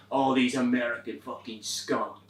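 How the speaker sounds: put-on low, seething accented rant; angry foreign accent. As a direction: spit it out in a thick accent. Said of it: "he is angry".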